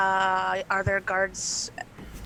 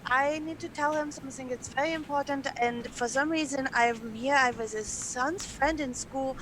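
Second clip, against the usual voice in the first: put-on higher-pitched, rambling, pleading child; crazy child; 3 semitones higher than usual. Gnome girl begging the guard to let her through, crazy child. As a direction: tumble through an earnest plea, stretching the final please. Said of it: "you sound like a crazy child".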